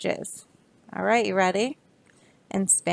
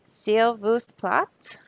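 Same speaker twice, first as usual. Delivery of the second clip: French please; 2 semitones higher, much slower than usual. Shown as a demonstration. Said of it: "say it in French".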